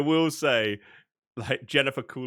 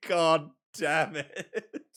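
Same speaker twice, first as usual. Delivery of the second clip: very slow, through laughter; laughing defeat; 4 semitones higher, much slower than usual. Retold or imitated. Admitting the dumb joke got him, slow and laughing. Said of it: "I'm like".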